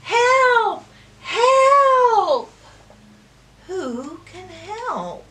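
high, loud call for help. Acted. Reader calls for help with the child, loud high. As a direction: call out like the stuck duck. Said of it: "Let's call for help again".

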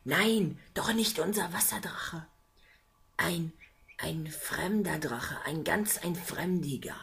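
water man answering the visitor; Wassermann voice. Acted. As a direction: speak like an old water spirit.

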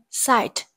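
site with its vowel read as "I", as in "eye"; long I sound. Shown as a demonstration. Teacher modelling pronunciation for students, long I in site. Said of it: "Y được đọc là".

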